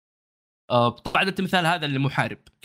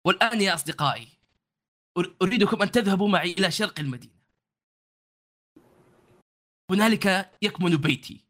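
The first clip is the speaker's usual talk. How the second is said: proud guide in formal Arabic; lightly voiced proud warrior host; formal standard arabic; 5 semitones higher than usual.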